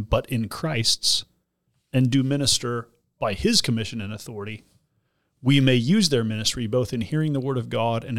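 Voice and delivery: put-on solemn, measured reading of an old confession; formal recital. Pastor reciting the Thirty-Nine Articles, formal and measured. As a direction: read it like a liturgy, deliberate. Reads Anglican Articles aloud.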